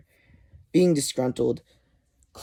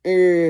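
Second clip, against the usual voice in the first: loud drawn-out "errr"; mock groan; 5 semitones higher, 7 dB louder than usual. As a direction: let out a higher, louder grunt. Voicing Shocker's startled groan.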